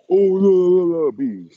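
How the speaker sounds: high mock babble, dropping off at the end; mocking emotional men. Vlogger mimics men getting mad at him, mocking. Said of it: "That's most of y'all men that be".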